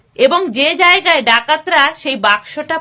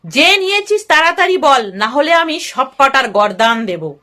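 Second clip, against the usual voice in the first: harsh shouting. Acted. Dacoit chief shouting at his men over the stolen gold box, harsh yell. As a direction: bark it out as the furious dacoit leader. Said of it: "চিৎকার করে কর্কশ গলায় চেঁচিয়ে".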